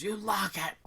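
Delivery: high-pitched character order; calling down the hall. Acted. She throws Boone the key down the hallway, high-pitched call.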